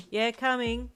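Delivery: high, loud call to the door. Acted. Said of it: "he called to them".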